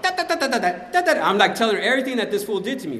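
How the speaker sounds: loud, high rapid rant; acted-out venting. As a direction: let a mock tirade pour out. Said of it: "I'm venting right now".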